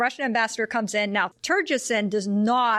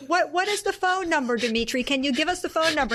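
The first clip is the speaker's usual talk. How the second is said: higher, coaxing question; hammed-up patient phone voice; talking to a child; 6 semitones higher than usual. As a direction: mimic asking a small child for help. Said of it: "speaking a lot to him like he's a child".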